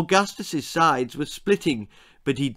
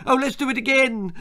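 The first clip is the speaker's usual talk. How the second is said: much higher eager cry; boy begging to repeat the prank, much higher; excited shout; 12 semitones higher, 4 dB louder, faster than usual. A narrator's reading. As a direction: bounce with glee. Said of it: "shouted Augustus".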